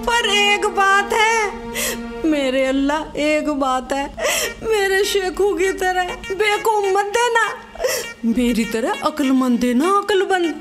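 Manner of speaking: tearful prayer. Acted. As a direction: plead as if weeping, stretching the words. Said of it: "क्या अम्मी रो रही हो". (रोते हुए दुआ)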